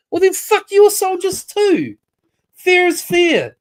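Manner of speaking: angry tit-for-tat; angry retort. Real, not acted. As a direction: spit it back in anger. Angry rant about dead soldiers.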